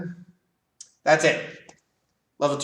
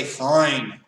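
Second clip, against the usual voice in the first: Fine said louder with a falling, dismissive edge; disrespectful fine; 6 dB louder than usual. Shown as a demonstration. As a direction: brush them off with Fine. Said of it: "say it in a kind of disrespectful way".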